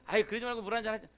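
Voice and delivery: fast, pressing offer with rising impatience; pushy insistence. Retold or imitated. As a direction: rush the offer like you won't take no. Third insistent offer of water. (빠르고 끈질기게 조르는 말투)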